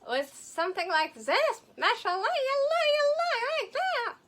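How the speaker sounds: loud, high-pitched Arab accent demo; exaggerated Arab accent. Shown as a demonstration. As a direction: shout it out in a hammed-up Arabic accent. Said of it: "being half Arab and half Russian".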